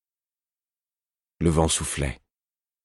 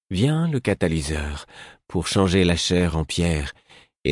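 dreamy prophecy. Acted. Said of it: "La voix du fou était rêveuse".

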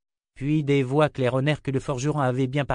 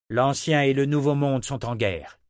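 higher-pitched, mildly raised declaration; declaring; 4 semitones higher, 4 dB louder than usual. A narrator's reading. Leader addresses his brothers in arms, declaring firmly. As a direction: announce it to a gathered crowd. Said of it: "déclara-t-il".

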